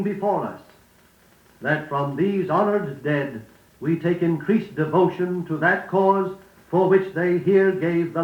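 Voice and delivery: measured, stately speech read as a model; formal oration. Shown as a demonstration. Reading the Gettysburg Address to students as a model, stately oration. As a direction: deliver it like a solemn memorial address. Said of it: "Then listen carefully to Lincoln's Gettysburg Address".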